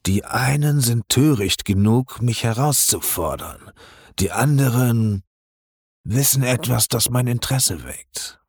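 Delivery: a crime lord weighing his guest; cold, calm menace. Acted. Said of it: "sein Tonfall ruhig, aber mit gefährlicher Kälte". (ruhig und eiskalt)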